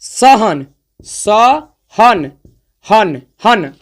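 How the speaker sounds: सहन stretched, हन repeated with a held ending; slow सहन, हन, हन stressing the अन sound; drawn-out demo. Shown as a demonstration. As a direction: drag सहन out to show अन. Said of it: "आवाजवा को थोड़ा सा".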